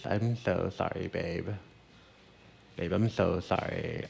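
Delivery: a light, drawn-out celebrity stylist apology; Rachel Zoe voice. Retold or imitated. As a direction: lightly slip into a slow, breezy fashion-insider voice. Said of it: "I'm gonna talk in my Rachel Zell voice".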